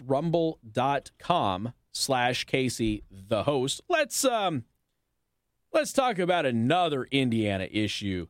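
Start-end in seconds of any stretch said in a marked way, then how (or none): 0.0-3.8 slowed down and lower, spelling out the web address; slow, low repeat of the web address; slow, deliberate repeat. Shown as a demonstration. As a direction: read the address again slowly so listeners can write it down.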